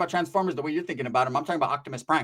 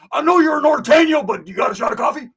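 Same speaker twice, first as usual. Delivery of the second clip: high shout easing toward the end; mock calling out; 8 semitones higher, 6 dB louder than usual. Woods begging coffee from a norteño, mock shout. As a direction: holler a request across cells, imitating.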